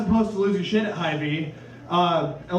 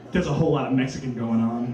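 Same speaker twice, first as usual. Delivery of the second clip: mock announcement; 8 semitones lower than usual. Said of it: "and just be like".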